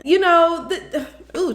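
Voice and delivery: laughing through the words; a real laugh bubbling out over the scene. Real, not acted. Laughing at Mark's answer in disbelief.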